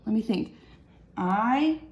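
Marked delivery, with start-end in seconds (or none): 1.2-1.8 slow syllable count. Shown as a demonstration. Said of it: "that's five syllables".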